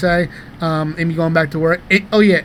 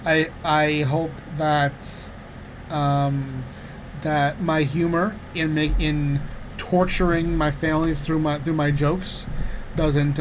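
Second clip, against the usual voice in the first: slow, softer, halting sincerity; heartfelt address; 5 dB quieter, slower than usual. Real, not acted. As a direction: tell your partner solemnly what you hope. Mock-solemn heartfelt speech to partner.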